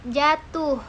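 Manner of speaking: "jatuh" with the second syllable "tuh" drawn out long. Shown as a demonstration. Lecturer to students demonstrating duration, "jatuh" with a long "tuh". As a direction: stretch the "tuh" in "jatuh", slowly. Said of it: "panjang pada silaba kedua".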